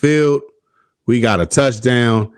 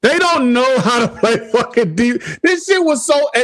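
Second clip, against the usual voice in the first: 1 exasperated rant; 11 semitones higher than usual. Real, not acted. Ranting about bad defense.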